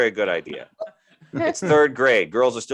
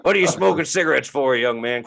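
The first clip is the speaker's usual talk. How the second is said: mock stern scolding; a grumpy elder telling off a kid; half-hearted scold; 3 semitones higher than usual. Scolding a young smoker.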